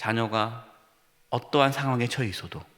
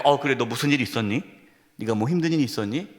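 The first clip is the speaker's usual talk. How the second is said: gentle parent; 4 semitones lower than usual. Acted. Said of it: "하면서 끝까지".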